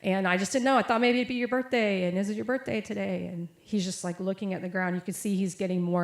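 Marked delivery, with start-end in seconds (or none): 0.0-3.3 retold nervous rambling, pitch jumping up; nervous energy. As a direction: imitate a friend's jittery explanation. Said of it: "just loads of nervous energy".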